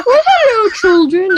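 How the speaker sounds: high, sing-out greeting with a laugh; hammed-up old nanny saying hello; matronly falsetto. Co-host greeting imagined guests as the pie-faced nanny, high playful falsetto.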